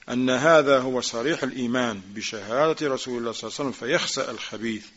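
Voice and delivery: quick, running recitation of the Arabic text; rapid text reading. Acted. Teacher reads the Shaykh's words to students, rapid recitation. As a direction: rattle through the quoted passage fast.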